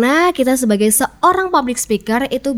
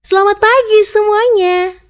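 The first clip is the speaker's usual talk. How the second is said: high, loud, cheery greeting; smiling voice; 11 semitones higher, 5 dB louder than usual. Shown as a demonstration. Speaker greeting an audience in a friendly tone, smiling voice. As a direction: greet them all through a big smile, pitched way up. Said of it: "smiling voice".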